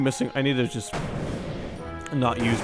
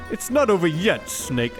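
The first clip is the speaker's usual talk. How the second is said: taunting villain, higher; Liquid Snake voice; 4 semitones higher than usual. Acted. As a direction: threaten like a gloating rival. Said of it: "I already kinda did give him a liquid voice".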